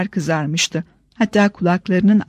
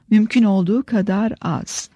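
"az" deliberately stretched on a long vowel; drawn-out "az". A narrator's reading. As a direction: linger on the word "az". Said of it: "Az derken sesini kasıtlı olarak uzatıyordu".

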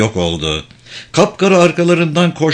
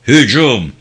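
louder, sudden order to charge; raised-voice battle command; attack command; 4 dB louder than usual. Acted.

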